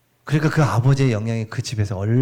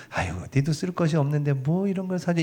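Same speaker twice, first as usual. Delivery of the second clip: fond inner voice; 4 semitones higher, 5 dB quieter than usual. Retold or imitated. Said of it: "이런 마음인데".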